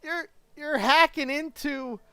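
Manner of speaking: retold outraged yell. Confronting the scam caller.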